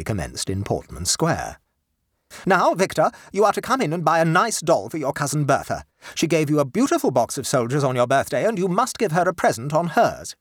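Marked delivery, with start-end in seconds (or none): 2.5-10.3 high, firm mother voice, scolding; a proper lady lecturing her boy; stern mother. Acted. Mother ordering her sulky son about, high and firm.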